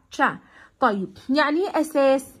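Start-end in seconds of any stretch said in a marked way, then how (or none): 0.1-0.4 تشا with a crisp ch at the start; ch sound. Shown as a demonstration. Teacher showing the ch in sketch. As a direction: say تشا with a clear ch. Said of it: "بنطقها تشا".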